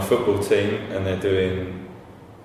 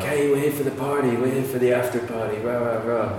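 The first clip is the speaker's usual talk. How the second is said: American partygoers; 3 semitones higher, 4 dB quieter than usual. Retold or imitated. American guys talking their way into the party, mock American accent. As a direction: imitate Americans rattling off their excuse. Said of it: "a load of American guys".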